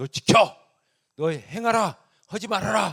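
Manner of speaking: mock commanding tone. Speaker imitating how the law gives orders, in a mock commanding tone. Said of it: "명령조로".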